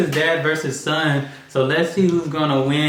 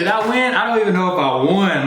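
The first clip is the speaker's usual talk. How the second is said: higher, talking around leftover marshmallows; mouth full; 4 semitones higher than usual. Real, not acted. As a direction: mouth still stuffed, laughing. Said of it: "My mouth was so full".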